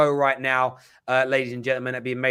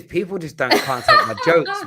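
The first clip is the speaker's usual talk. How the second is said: laughing; 4 semitones higher, 5 dB louder than usual. Real, not acted. Laughing at his own joke.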